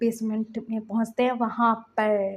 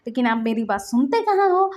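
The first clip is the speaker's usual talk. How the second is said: angry scolding; 2 semitones higher than usual. Retold or imitated. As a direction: lecture him, getting sharper. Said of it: "लांसन गुस्सा कर रहा था".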